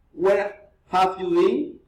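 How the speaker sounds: slow, polite question with an upturn on "been"; rising intonation. Shown as a demonstration. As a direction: friendly question lifting at the end of "been". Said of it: "reason, intonation".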